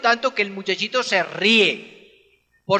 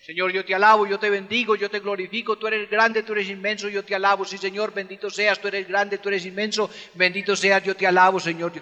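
softer, murmured litany of praise; rote praise; 4 dB quieter, faster than usual. Retold or imitated. Preacher imitating believers' quiet rote praise. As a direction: recite praises like a soft repetitive prayer. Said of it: "¿Qué dicen?".

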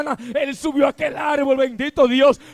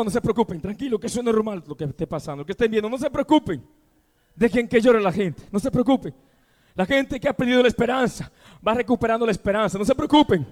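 reassuring; 4 semitones lower, faster than usual. Real, not acted. Pastor calms a weeping congregation.

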